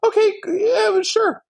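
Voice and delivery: high, sing-song sarcastic okay sure. Pretend. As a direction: roll your eyes and concede. Mock grudging concession to critics.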